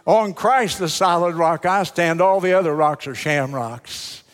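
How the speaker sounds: relishing the joke's punchline; proud repeat. Shown as a demonstration. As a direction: savor the punchline again. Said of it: "I like that, don't you?".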